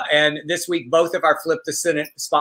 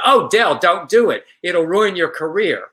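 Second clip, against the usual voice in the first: alarmed pleading friend; 4 semitones higher, 4 dB louder than usual. Retold or imitated. Friend warns him in retold story.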